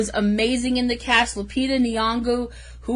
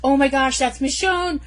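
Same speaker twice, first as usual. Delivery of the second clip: realization; 3 semitones higher than usual. Retold or imitated. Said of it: "and I went".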